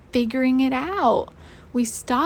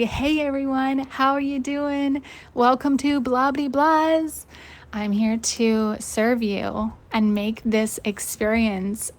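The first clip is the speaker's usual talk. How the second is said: imitating a bubbly waitress, bright and sing-song. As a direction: put on a chirpy hostess greeting, slowing the welcome. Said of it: "her bubbly energy is like".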